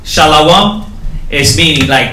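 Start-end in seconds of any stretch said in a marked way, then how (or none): 0.0-0.9 Shalom said "sha-la-WAM" with an added wa syllable. Shown as a demonstration. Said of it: "you add the Wa".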